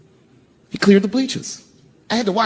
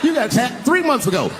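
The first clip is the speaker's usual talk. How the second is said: inner fury; 7 semitones higher than usual. Retold or imitated. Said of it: "I'm thinking in my mind".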